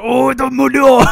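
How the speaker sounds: high, loud, drawn-out moan; mock swooning hat. Host acts the hat on McGonagall's head, high hammed-up moan. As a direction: cry it out slowly, hammed-up.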